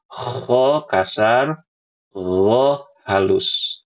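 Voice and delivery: "Kho" rough then "gho" smooth, both slow; kho harsh, gho gentle; rough kho, soft gho. Shown as a demonstration. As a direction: contrast coarse and soft.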